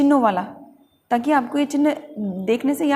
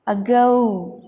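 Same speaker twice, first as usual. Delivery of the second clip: अगो with a strong, held GO; अगो said uh-GOH; stress on g; much slower than usual. Shown as a demonstration. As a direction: put force on the g of अगो. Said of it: "जी के ऊपर आपको थोड़ी ताकत लगानी है".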